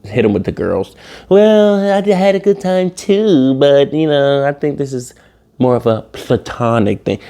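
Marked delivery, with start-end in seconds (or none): 1.3-7.2 imitating date. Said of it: "And she was like".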